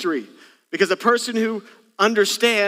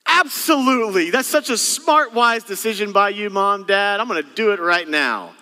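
put-on cheerful obedient child. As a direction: play a kid delighted to obey. Child cheerfully obeying parent.

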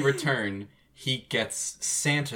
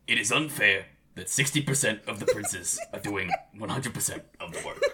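light, understated impression of an old senator railing about unfair workloads; Bernie Sanders; 2 semitones lower than usual. Podcast host slips a lightly voiced senator into the recap. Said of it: "That was Bernie Sanders".

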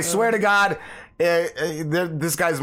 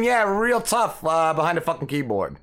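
sarcastic taunt; 2 semitones higher than usual. Real, not acted. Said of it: "sarcastic jab at keyboard warriors".

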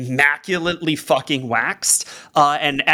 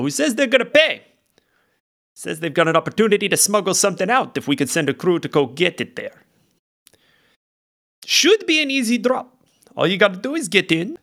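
lightly voiced rough sailor lizard; a salty deckhand laying out the plan; Bluebeard the lizard; 3 semitones higher, faster than usual. Lizard translator briefs the crew, a touch rough and brisk.

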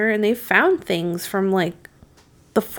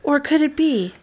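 pitched-up narrator mimicry; mock TV narrator lilt; uptalk; 3 semitones higher than usual. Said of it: "up inflection all the time".

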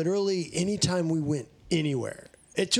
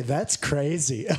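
catchphrase; slower than usual. Shown as a demonstration. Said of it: "That's my catchphrase".

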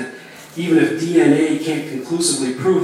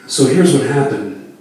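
captain's PA announcement; 5 dB louder than usual. Acted. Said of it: "the captain continues".

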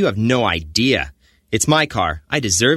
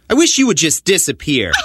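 angry; 5 semitones higher, 4 dB louder than usual. Acted. Repeated louder, harder.

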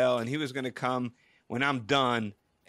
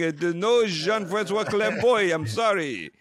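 louder, put-on voice of an apologetic clerk; hotel receptionist; 4 semitones higher, 5 dB louder than usual. Receptionist tells insistent caller there is no such guest, louder mock-apologetic. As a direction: play the hotel lady firmly finding nothing. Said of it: "And she goes".

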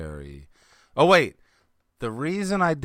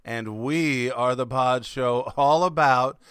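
slow announcer; slower than usual. Acted. Podcast intro announcement.

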